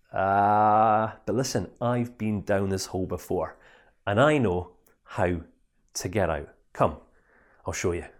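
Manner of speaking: gentle knowing friend; calm reassurance. Acted. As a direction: reassure him you know the way out. Friend calmly reassures him.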